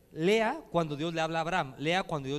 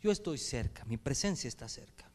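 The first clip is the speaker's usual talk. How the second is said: soft voice of God; 5 semitones lower, 8 dB quieter than usual. Shown as a demonstration. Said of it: "Escuche esto".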